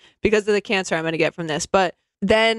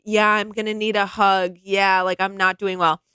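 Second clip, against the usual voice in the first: mopey victimhood. Retold or imitated. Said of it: "his tone is what Schwartz described".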